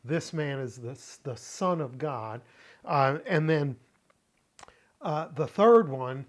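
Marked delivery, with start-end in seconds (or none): 1.2-2.4 "Son" given the main weight in the phrase; stress on Son. Shown as a demonstration. Teacher quoting the centurion's declaration, stress on "Son". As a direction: lean lightly on "Son", then let "of God" fall away. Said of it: "emphasizing the word Son".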